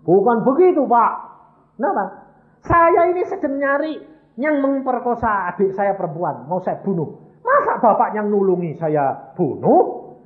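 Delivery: high, loud imitated distress; tearful protest. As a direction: act out a crying man explaining himself. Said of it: "kok kamu nangis". (menirukan orang memelas sambil menangis)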